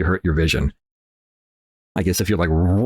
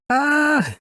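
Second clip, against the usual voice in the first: surprised ah. Retold or imitated. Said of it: "and I was like".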